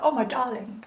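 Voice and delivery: lightly voiced elderly relative saying darling; relative's posh voice. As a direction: put on an older relative's darling. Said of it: "they speak like this".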